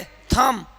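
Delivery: "थम" ending on m, no b; silent b. Shown as a demonstration. Teacher drills students on the rule, silent b in "थम". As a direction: say "थम" with the final b left unspoken. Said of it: "यहाँ पर बी को नहीं पढ़ेंगे".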